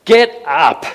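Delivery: sharp, loud "Get up!" from a fed-up father; stern father's order. Retold or imitated. Father ordering his child off the floor, sharp loud command. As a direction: bark it like a dad who's had enough. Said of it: "as a father, you can just go".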